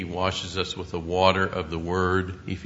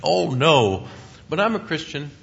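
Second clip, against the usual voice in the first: higher, brushing-off believer voice; mock defensive churchgoer; 8 semitones higher, 6 dB louder than usual. Preacher mimics a churchgoer dodging the born-again question, higher and defensive. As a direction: wave off the question, insisting. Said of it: "You've heard some say".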